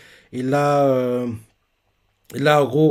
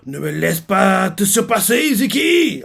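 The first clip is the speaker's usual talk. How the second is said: challenging shout; 6 semitones higher, slower than usual. Retold or imitated. Rival's challenge recalled.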